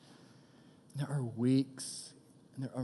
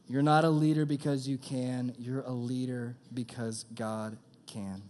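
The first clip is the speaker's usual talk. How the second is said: slow emphatic repeat. Shown as a demonstration. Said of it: "That's tweetable".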